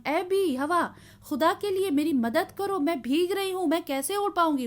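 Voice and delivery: cry for help. Acted. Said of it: "वो मदद के लिए चिल्ला रही थी".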